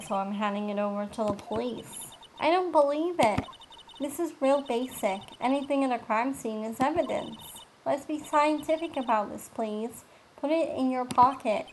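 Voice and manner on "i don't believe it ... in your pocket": slightly higher, indignant game character; mildly exasperated, lightly acted scolding; lightly voiced indignant character.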